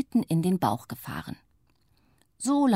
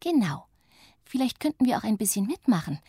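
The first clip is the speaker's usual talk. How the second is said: eager little witch; 4 semitones higher than usual. Acted. Little witch suggests joining.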